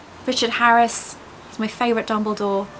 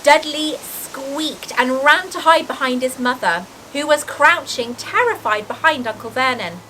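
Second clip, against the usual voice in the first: expressive, lilting storybook reading; story narration; 4 semitones higher than usual. A narrator's reading. Reader describing the giant's arrival, in animated storytelling voice. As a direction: read aloud with drama on the vivid words.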